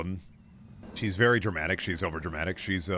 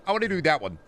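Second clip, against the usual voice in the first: put-on childish, higher whine; five-year-old voice; 4 semitones higher, faster than usual. Kid begging his dad, childish whine. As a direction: pester like a kid pointing at pictures. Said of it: "like a five-year-old".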